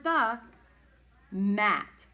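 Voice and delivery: loud, separate, drawn-out words; word-by-word reading. Shown as a demonstration. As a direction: land each word firmly with a pause between. Finishing word-by-word sentence.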